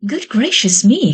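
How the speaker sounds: high startled exclamation; startled witch crying out; surprised cry. Acted. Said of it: "cried a witch".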